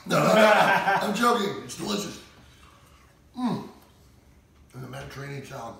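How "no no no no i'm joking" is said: loud laughing denial. Real, not acted. Laughs off his joke.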